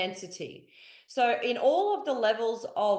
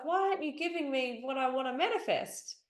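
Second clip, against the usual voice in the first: higher, lightly plaintive demand; mock complaint; 4 semitones higher, 3 dB quieter than usual. Pleaser asking their higher self for results, mock plaintive. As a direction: imitate someone complaining they've been short-changed.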